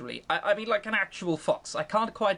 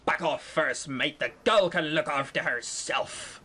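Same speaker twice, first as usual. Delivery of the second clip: pirate captain voice; 4 semitones lower than usual. Acted. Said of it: "the captain has to be the one speaking the pirate voice".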